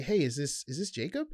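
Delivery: rising curious question on Jacob. Shown as a demonstration. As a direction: ask his name like you're unsure it's him. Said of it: "is questioning".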